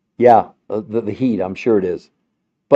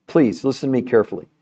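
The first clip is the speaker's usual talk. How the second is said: usual speaking voice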